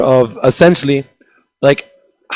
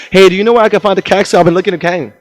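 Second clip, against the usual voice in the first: gibberish; 4 semitones higher, faster than usual. Retold or imitated. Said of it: "I'll speak to them in gibberish".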